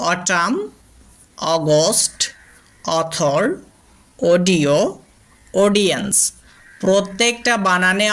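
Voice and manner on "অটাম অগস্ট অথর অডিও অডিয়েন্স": অটাম, অগস্ট, অথর said with an aw vowel; example words said carefully. Shown as a demonstration. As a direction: model each word for the class. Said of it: "উদাহরণ দেখি". (অ ধ্বনিতে উদাহরণ শব্দ)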